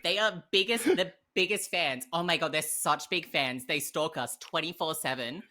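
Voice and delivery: put-on whiny bragging voice; mock complaining. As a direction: play annoyed at the crew. Whiny put-on complaint about production.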